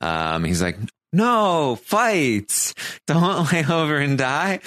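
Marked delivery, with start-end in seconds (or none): 1.1-4.6 high, punchy coach-like urging; rally her like a hyped-up coach; pumped-up pep talk. Retold or imitated. Podcaster voicing Kevin urging Bailey to fight, high mock pep talk.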